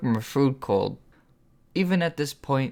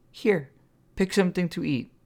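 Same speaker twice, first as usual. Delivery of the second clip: put-on higher, eager young woman voice; insisting; 7 semitones higher than usual. A narrator's reading. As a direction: press her to eat, voice raised higher. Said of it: "Sunflower insisted".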